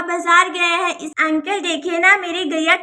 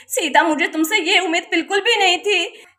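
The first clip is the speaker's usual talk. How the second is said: tearful reproach. Acted. Mother blames Sita tearfully.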